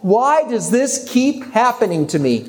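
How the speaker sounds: high, slow, drawn-out lament; imitated bawling. Crying friend pleading to him on the phone, imitated wail. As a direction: imitate a tearful plea, stretching each word further. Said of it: "just bawling and saying".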